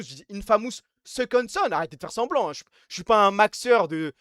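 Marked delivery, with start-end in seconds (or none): 0.3-1.7 "Infamous Second Son" in a French accent; French pronunciation. Shown as a demonstration. Streamer challenges chat on the name, French-sounding "Infamous". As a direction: say "Infamous" as "in-fa-mousse". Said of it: "force encore plus l'accent français".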